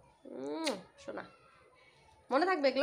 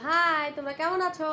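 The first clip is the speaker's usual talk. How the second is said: demo greeting; 4 semitones higher, 4 dB louder, slower than usual. Shown as a demonstration. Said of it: "বলে দাও।".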